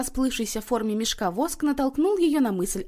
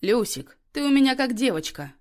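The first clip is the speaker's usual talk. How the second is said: purring; 4 semitones higher, 5 dB louder than usual. A narrator's reading. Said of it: "промурлыкал Иннокентий".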